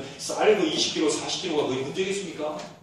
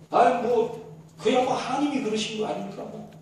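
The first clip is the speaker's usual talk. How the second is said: sulky, higher grumble; grumbling; 5 semitones higher than usual. Retold or imitated. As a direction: mutter it like a sulking man. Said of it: "투덜투덜 대면서 얘기하는 거예요". (투덜대며)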